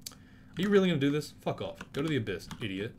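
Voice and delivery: high, loud disbelieving shout; exasperated yell. Real, not acted. Gamer shouting at an attacking enemy, outraged.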